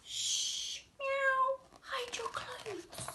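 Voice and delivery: slow, hushed whisper; secret whisper. Acted. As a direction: whisper it so no one hears. Cat tells secret to master.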